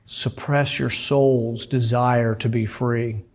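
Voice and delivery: slow, understated imitation of a soothing announcement; measured, faintly hypnotic delivery; mildly soothing. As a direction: lightly imitate a soothing drone message, slowly. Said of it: "in the soothing voice of a woman".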